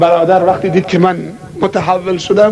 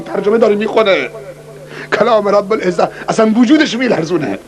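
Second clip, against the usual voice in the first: ordinary talk, nothing marked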